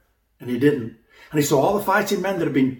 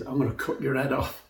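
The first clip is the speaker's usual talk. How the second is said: quiet threat; 5 dB quieter than usual. Retold or imitated. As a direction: promise it softly, like a calm warning. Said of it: "That's fighting talk".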